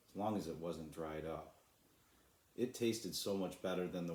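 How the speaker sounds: calm, steady storybook reading; story narration. A narrator's reading. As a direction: read it like a bedtime story for children.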